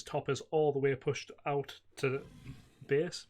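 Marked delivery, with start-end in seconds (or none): 2.9-3.3 words broken by a burp. Real, not acted. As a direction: say it through a burp. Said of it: "Pardon me, I'm burping".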